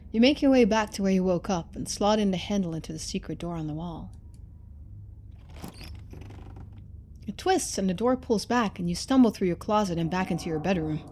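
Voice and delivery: even, steady narrator read; story narration. A narrator's reading. Streamer narrating the escape back home, steady storytelling. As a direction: carry the story along calmly.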